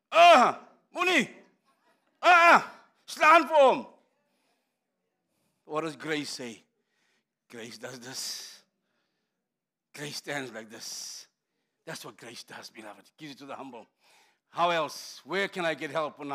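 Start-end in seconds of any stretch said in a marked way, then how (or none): 0.1-3.9 high, loud goading cries; short, raised bursts of incitement; enemy egging on. Acted. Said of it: "the word of the enemy is". 5.7-13.9 low, hushed preaching; quiet, low contrast to the shouting; soft and gentle. Shown as a demonstration. Voicing grace as gentle contrast.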